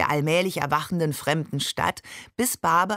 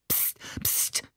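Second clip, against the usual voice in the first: voiceless, much softer hiss; hissed shush; 11 dB quieter than usual. A narrator's reading. Ali warns them about the windows, hissed shush. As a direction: hush them sharply without voice. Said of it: "zischte Ali".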